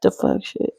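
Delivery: breathy laughing words. Real, not acted. Repeating her own phrase while laughing.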